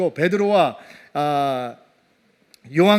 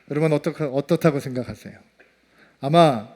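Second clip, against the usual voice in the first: ordinary talk, nothing marked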